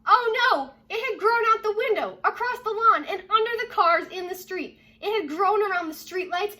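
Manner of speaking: high, loud dramatic narration; storyteller raising the alarm, loud and high; alarmed excitement. A narrator's reading. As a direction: build the alarm. Story climax, growing alarm.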